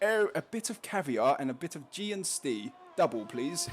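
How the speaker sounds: lightly put-on posh English; hint of hammed-up posh English; mock posh. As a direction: order like a posh customer. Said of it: "it's very posh tonight".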